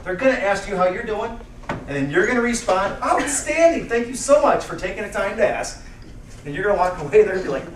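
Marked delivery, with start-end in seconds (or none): 3.0-5.8 higher-pitched, enthusiastic answer; upbeat reply. Acted. Speaker modelling a cheerful reply to "how are you", upbeat. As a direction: answer with pep, pitch lifted.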